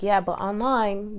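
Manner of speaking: imitating her firmer negotiating voice; firm, chesty pushback. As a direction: put some bass in your chest. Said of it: "had to learn how to put some bass in her chest".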